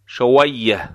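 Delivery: شویه with و made by both lips puckered; rounded waw. Shown as a demonstration. Teacher showing learners the waw, rounded waw in شویه.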